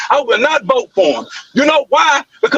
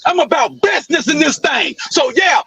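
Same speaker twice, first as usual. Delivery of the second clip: a yelled declaration; real yelling. Real, not acted. Man yelling his stance at the audience. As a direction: shout it out to the room. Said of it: "all that yelling you doing".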